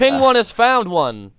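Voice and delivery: high, slow host call; game announcer. Real, not acted. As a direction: draw out the announcement for all players.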